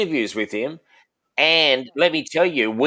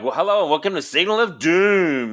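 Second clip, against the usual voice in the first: podcast intro voice; 5 semitones higher than usual. Shown as a demonstration. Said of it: "That's how I say it".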